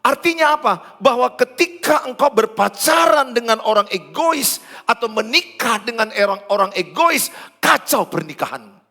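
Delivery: loud, high, driving sermon voice; full-force preaching. Acted. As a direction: preach it hard to the congregation. (khotbah berapi-api dengan suara keras)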